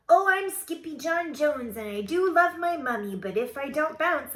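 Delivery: high, loud kitten chant; excited sing-song kid character; bouncy declaration. A narrator's reading.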